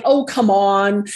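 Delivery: slow, drawn-out mock coaxing; coaxing friends. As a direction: imitate friends lightly egging someone on. Friends acted out, urging her drinking.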